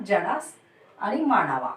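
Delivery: usual speaking voice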